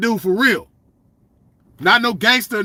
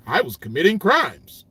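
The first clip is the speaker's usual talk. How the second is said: mocking a nerd; 4 semitones lower than usual. Mocking the nerd who never did crimes, a prim low voice. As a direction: say it like a sheltered nerd. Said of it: "we don't talk like".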